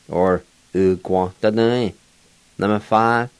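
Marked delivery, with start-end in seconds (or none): 0.7-1.9 "uguantadai" with a gw glide after the u; blended "uguantadai", w sound after the g; Q sound variant. Shown as a demonstration. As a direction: say "uguantadai" with gwon as second syllable. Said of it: "say with a Q sound".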